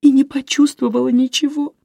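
pained, on the edge of crying; bitter tears. A narrator's reading. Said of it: "губы сложились в горькую складку". (высоко, с горечью и слезами)

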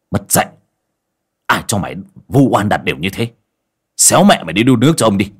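father berating his daughter; angry scolding. Acted. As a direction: bark at the daughter. Father slaps and curses daughter.

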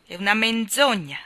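furious hissed whisper; angry whisper. Acted. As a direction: spit the denial under the breath. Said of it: "si arrabbiò davvero".

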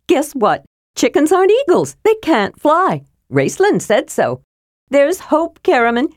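high-pitched, breathless kender chatter; excited shouting. A narrator's reading. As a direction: gush out the news eagerly. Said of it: "Tass shouted".

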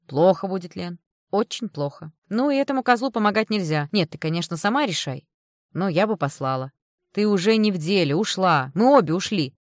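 loud, blunt, insistent woman; a tough friend laying it out straight; brash friend. Acted. Friend advising the mother, loud blunt voice. Oksana's forceful voice.

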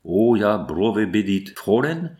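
put-on a German doctor comments on the girl in his accent. The doctor mutters in a German accent. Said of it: "je l'entendis qui murmurait".

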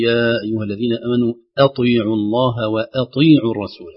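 أطيعوا with a light hamza before a heavy ط; careful Quran recitation of أطيعوا; correct recitation. Shown as a demonstration. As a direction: keep the hamza of أطيعوا thin, the ط full and heavy. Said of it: "نقول".

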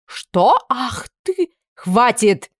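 sharp outburst. Acted. Outburst then Anna stops it.

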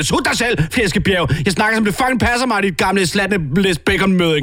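a bratty little sow mouthing off; foul-mouthed piglet. Acted. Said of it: "siger Sabrina".

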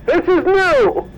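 slow, dazed and fading; drifting into a faint, slowly; woozy. Acted. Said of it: "I think I'm blacking out".

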